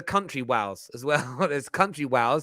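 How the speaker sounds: "wows" for Wales, the L turned to a W. Shown as a demonstration. Host showing colleague the country name, Wales said as "wows". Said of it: "That's how I talk".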